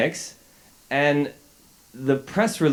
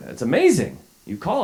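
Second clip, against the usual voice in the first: excited; 6 semitones higher than usual. Retold or imitated. Teacher thrilled at the callback.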